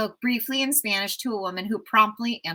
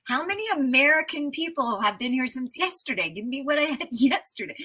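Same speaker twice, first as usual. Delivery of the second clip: higher, half-laughing disbelief at being misunderstood; exasperated pleading; 6 semitones higher than usual. Retold or imitated. To the restaurant staff the next night, exasperated and half-laughing. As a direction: play it baffled and a bit pleading, with a laugh near the end. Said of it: "I was like".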